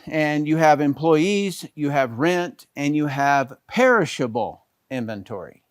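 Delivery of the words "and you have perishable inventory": "perishable" leaned on, falling tune; emphasize "perishable" as the key word; stress on perishable. Shown as a demonstration. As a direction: hit "perishable" firmly. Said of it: "I emphasize perishable".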